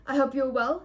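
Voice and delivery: loud, self-important pleasantry; formal, puffed-up courtesy; pompous. A narrator's reading. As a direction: say it like a mayor receiving guests. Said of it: "pompously shaking hands".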